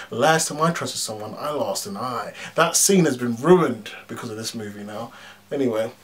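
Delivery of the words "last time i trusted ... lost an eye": low, grave Fury line, trailing soft; quoting Fury, lower. Retold or imitated. Reviewer quoting Nick Fury's grim line, low and grave. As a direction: deliver it like a solemn warning. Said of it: "The Russo brothers' epic scene".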